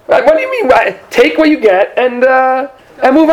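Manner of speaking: squeaky high exasperated what; mock indignation. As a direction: play the baffled, put-out giver. Mock indignant parent scolding ungrateful child.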